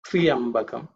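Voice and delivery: "Triambakam" opening on a clear "tri-yam"; alternative correct pronunciation. Shown as a demonstration. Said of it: "Triambakam or".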